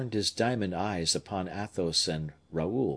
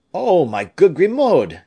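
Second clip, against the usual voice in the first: high, loud exclamation; crying out; 9 semitones higher, 11 dB louder than usual. A narrator's reading. Raoul hailing his faithful servant, crying out. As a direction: call out to an old servant, voice lifted high. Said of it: "cried Raoul".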